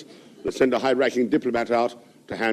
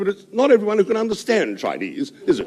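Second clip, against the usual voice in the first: laughing punchline; 8 semitones higher than usual. Acted.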